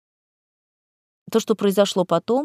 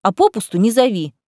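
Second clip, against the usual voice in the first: louder scolding rant; 4 dB louder than usual. Acted. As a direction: tell her off hotly. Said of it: "начала ругаться рыжая".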